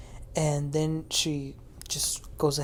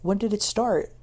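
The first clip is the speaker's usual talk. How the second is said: lightly higher innocent question; 4 semitones higher than usual. Retold or imitated. Retelling a castmate who innocently asks when it started, mildly innocent. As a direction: ask it with mock innocence. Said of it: "innocently asks".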